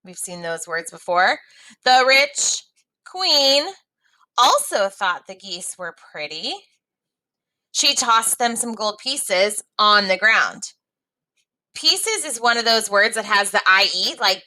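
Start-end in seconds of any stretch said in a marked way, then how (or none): 1.8-10.7 put-on lively read-aloud for young learners; story reading. A narrator's reading. Teacher reading a story to students, lively read-aloud.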